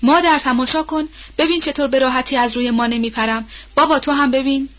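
put-on a girl calling eagerly to her mother and father; excited child's shout. Excited shout. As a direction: raise the voice high and call out to mother. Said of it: "فریاد زد".

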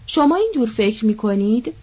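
mildly surprised question. Acted. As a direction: ask it with a touch of astonishment. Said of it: "با شگفتی پرسید".

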